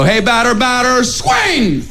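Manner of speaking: mock chatter. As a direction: lean in and chant. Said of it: "we're all supposed to lean in and go".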